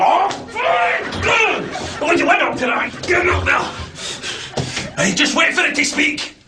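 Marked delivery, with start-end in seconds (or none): 0.0-3.6 frustrated shout. Real, not acted. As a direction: shout at the lift in laughing frustration. Yelling at the lift.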